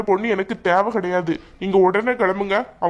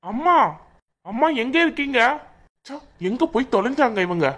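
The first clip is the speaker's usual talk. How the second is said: calling out irritably; 3 semitones higher than usual. Acted. Son comes home looking for his mother, calling out irritably. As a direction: call out for her, impatient and raised in pitch. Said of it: "இவன் எதுக்கு தேவையில்லாம இப்ப கத்திக்கிட்டே வர்றான்?".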